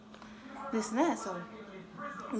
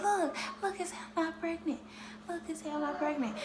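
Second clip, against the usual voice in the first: excited; 7 semitones higher than usual. Retold or imitated. Showing sister the test.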